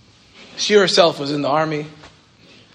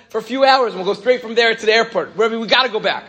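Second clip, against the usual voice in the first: higher, insistent retelling of the student; eager plea; 6 semitones higher than usual. Retold or imitated. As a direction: keep begging, pitch up. Aaron pleading, quoted.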